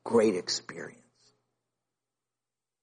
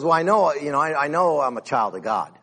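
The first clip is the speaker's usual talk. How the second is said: unconvinced; 4 semitones higher than usual. Retold or imitated. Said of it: "just the way he said it".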